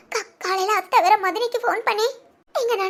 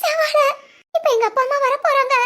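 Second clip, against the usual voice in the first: mildly tearful, higher-pitched worry; 3 semitones higher than usual. Acted. Daughter-in-law telling her friend her parents are coming, tearful. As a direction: confide it on the edge of crying. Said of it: "அதுக்கு எதுக்குடி அழுகுற".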